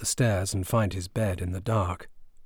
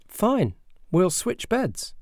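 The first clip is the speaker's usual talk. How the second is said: slow sly agreement; 12 semitones higher, much slower than usual. Acted. Alvin agreeing slyly.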